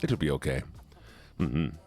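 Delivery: put-on German accent. Streamer honouring a chat redeem, mock German accent. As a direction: speak English with a playful German accent. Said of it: "we have to do this German voice".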